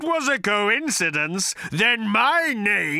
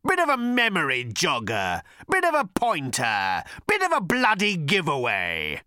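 furious bellow; 10 semitones higher than usual. A narrator's reading. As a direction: rant in bitter fury. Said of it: "he bellowed".

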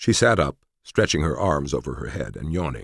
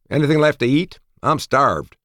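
high, louder groggy character voice; lightly voiced hungry sleepyhead, pitched up; 11 semitones higher, 5 dB louder than usual. A narrator's reading. Just-woken Cortez asks for food, groggy and high. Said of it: "Still half asleep".

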